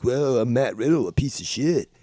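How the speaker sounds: lightly voiced stoner dude; mock a dopey weed bro; a hint of stoner-bro impression. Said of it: "when you're, like, a weed bro".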